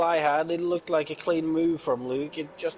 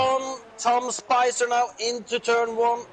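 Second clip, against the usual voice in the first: excited; 5 semitones higher, 4 dB louder than usual. Real, not acted. Overtake attempt into turn one.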